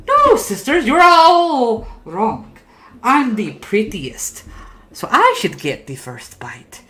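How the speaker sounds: high, loud wail of protest, vowels hugely stretched; third ugly puppet. Acted. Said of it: "You see the third puppet goes".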